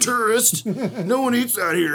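a touch of a sniffy local, slow; snooty local. Retold or imitated. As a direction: look down on the tourist a little. Mocking snooty Charleston local.

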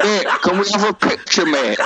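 high, laughing imitation of a pushy guest; laughing mock punter. Mocking the guests who want photos, laughing and high. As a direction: squeak it out through laughter like a tipsy guest.

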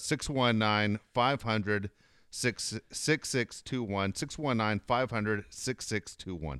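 slow, clear number read; slow and deliberate. Acted. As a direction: spell out every digit slowly. Reading phone number in ad.

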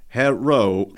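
lightly voiced robot with mock Asian accent. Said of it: "one of those Asian robot voices".

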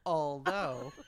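low, drawn-back second thought; imitating Alex. Mimicking a friend's favorite word, low mock hesitation. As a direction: drop the pitch as if reconsidering. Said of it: "Alex's second most used word".

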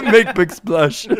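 slow mock Russian accent; joking in a thick-tongued Russian accent. Joking as the pool bomber, Russian accent. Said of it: "It turned Russian".

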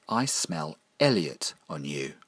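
slow, lightly voiced creature line; menacing creature. The thing in the study speaks to Michael, slow creature voice. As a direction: draw it out slowly, as the thing.

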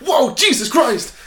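high, slow, laughing gasp of shock; startled exclaim. Retold or imitated. Recalling a guy chugging his drink, startled. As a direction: blurt it out in shock, half laughing.

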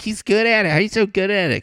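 put-on very high, loud kid squeal; shrieking high mock-child voice; amazed grandkids. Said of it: "my grandkids".

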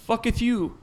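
mock old-time founding father curse; founding fatherish. Riffing on time-traveling founding fathers, mock founding fatherish. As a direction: lightly put on an archaic statesman. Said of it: "they're talking all founding fatherish".

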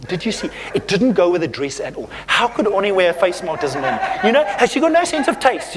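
gossipy mock disapproval, rising in pitch; murmuring gossip. Churchgoer criticising a woman's face mask, catty mock grumbling. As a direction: tut over someone behind their back, amused. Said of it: "you know what murmuring is".

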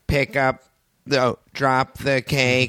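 put-on flat monotone child actor line. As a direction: say it slowly with zero emotion.

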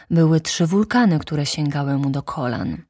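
ordinary delivery

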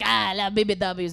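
rough mock French accent. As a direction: imitate a French dude, not very well. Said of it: "He was French".

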